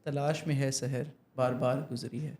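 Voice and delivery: careful, distinct verse reading; clear diction. Shown as a demonstration. Student repeats the teacher's verse on air, careful clear diction. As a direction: echo the verse with clean words. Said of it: "بالکل صاف ہو گئی تھی".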